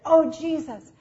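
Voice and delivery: high, loud, drawn-out cry to Jesus; excited devotion. Retold or imitated. Woman cries out to Jesus after reading of love, excited. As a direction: imitate her excited outpouring, stretching the words. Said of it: "she got so excited".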